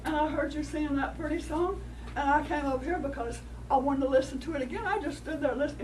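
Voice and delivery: butter up the dove like a sly coyote; lightly voiced coyote coaxing; coyote's flattery. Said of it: "the coyote said".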